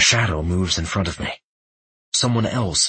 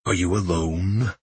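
snide; 3 dB quieter than usual. A narrator's reading. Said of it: "Udug's snide voice rings with amusement".

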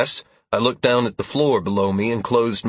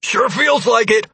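raised voice over rumbling; calling back; 13 semitones higher, 5 dB louder than usual. A narrator's reading. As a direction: call it out over the noise. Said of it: "I called back".

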